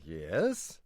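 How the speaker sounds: low, drawn-out prompt; mock expectant. Brother eggs on the other's theory, mock expectant. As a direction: play at waiting gravely for wisdom.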